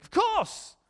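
eager yes. Retold or imitated. Friend warmly agreeing.

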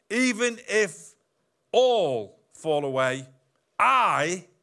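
slow, loud, drawn-out boast; boastful Peter voice; proud boast. Acted. Preacher acting out Peter's boast.

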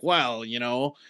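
villain overheard plotting in the cellar, getting giddy; scheming henchman. Retold or imitated. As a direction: build from casual plotting to a high, giddy throwaway. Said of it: "you hear this other one go like".

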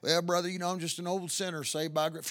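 a touch of a soft, meek mumbled quote; mocking quote. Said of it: "I don't talk like that".

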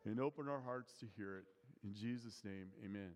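hushed pastor's prayer. Acted. Opening prayer before sermon.

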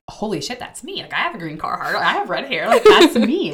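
high, rising excitement, ending in a loud squeal; a girl realizing the post is about her, squealing it out; excited disbelief. Retold or imitated. Telling a friend the admirer post describes her, building to a loud excited squeal. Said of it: "And I was like".

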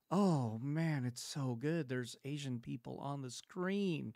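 sending up a starry-eyed anime fan; hammed-up gush of a Tokyo-loving fan; mock weeb fan. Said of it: "bunch of weebs are just going".

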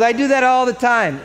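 high, loud and unbothered; carefree loud boast. Retold or imitated. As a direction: toss it off, proud of the crash. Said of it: "She goes".

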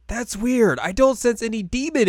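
high-pitched, puzzled exclamation; mock puzzlement. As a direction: pitch it up, lightly baffled. Sango acted, puzzled by missing energy.

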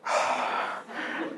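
soft breathy sigh of a dad won over; melting sigh. Retold or imitated. Preacher mimics a dad melting at his daughter, soft sigh. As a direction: sigh like a father undone by cuteness. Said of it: "he's like".

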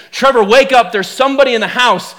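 wife's retold warning, fairly contained; urgent but measured wake-up warning; first warning. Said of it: "the warning changes".

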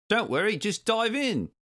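very high, singing-out call. A narrator's reading. Swordfish inviting friends into the sea, high call. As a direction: call across the water. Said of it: "he called".

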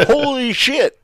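high, loud laughing exclamation; cracking up in disbelief. Real, not acted. Camera finally turned on.

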